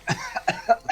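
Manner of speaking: breathy, unvoiced mock cough; hacking pretend cough; acted coughing. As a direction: cough like someone half-drowned. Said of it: "Father's probably coughing like".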